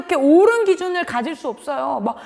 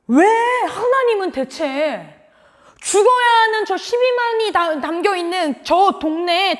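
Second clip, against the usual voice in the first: Jonah; 3 semitones higher than usual. Retold or imitated. Preacher voices the prophet questioning God, mock indignant. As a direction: protest why, stretching words in mock outrage. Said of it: "라는 이유로 화를 내고 있다".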